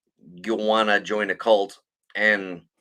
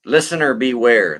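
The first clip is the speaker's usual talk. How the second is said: ominous warning; 7 dB louder than usual. Real, not acted. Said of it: "This shit is fucking brutal".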